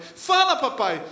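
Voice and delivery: put-on high, loud eager child's plea; a little boy begging his dad, nearly yelling; child almost shouting. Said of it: "Quase gritando assim".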